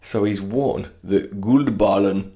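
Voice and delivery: slow put-on Swedish accent. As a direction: say it like a Swede. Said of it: "in my best Swedish accent".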